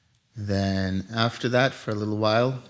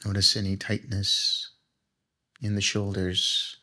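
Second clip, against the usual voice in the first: guided meditation. Acted. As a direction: ease the group into stillness, unhurried.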